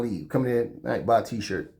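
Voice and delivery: usual speaking voice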